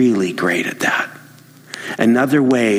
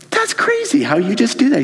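retold amazement; 11 semitones higher than usual. Retelling amazement at colleague's switch.

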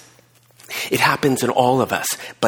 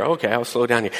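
laughing agreement; 3 semitones lower than usual. Acted. Complying self, laughing.

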